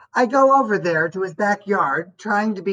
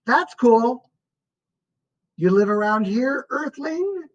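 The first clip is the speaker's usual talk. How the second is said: playful greeting; 4 semitones higher than usual. A narrator's reading. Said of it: "I go".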